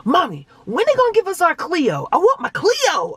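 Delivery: put-on high, loud kid voice; imitated pestering child. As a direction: whine impatiently like a little boy nagging mom. Voices impatient son again.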